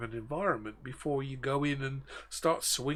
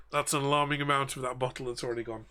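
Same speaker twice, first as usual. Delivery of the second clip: laughing; faster than usual. Real, not acted. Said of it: "but I'm sorry".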